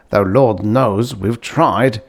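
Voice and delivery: slow, musing trail-off. Acted. Uncle musing over the mystery, slow and thoughtful. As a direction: ponder it aloud, unhurried. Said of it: "he added musingly".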